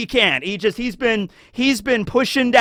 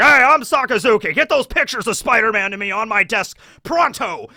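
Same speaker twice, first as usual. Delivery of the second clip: mock barking boss; 5 semitones higher than usual. Sakazuki barking orders parody.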